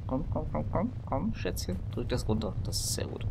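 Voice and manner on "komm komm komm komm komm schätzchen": high, urgent coaxing. Real, not acted. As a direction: coax it along anxiously. Coaxing character along.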